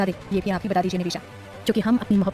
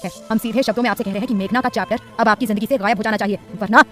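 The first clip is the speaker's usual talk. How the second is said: mildly raised angry warning; husband angrily warning his wife off her friend. Acted. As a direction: scold and threaten her. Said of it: "गुस्से से उसे उंगली दिखाते हुए बोला".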